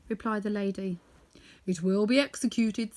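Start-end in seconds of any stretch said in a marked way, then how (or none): 1.7-2.9 a hint of a courtly king; lightly voiced Monkey King. A narrator's reading. Monkey King accepts Dorothy's order: lightly voiced. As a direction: promise it briskly. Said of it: "said the king".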